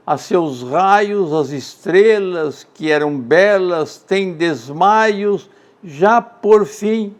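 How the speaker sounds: slow, measured verse reading; unhurried poetic cadence; poem recitation. Acted. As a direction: let each short line ring out. Recites Gonçalves Dias poem.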